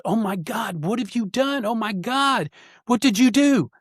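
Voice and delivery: imitating an astonished wife, high-pitched exclamations; tearful astonishment, retold. Wife walks in on her healed husband, tearful astonishment, retold. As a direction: voice lifted high, mimicking her tearful disbelief. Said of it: "she started crying".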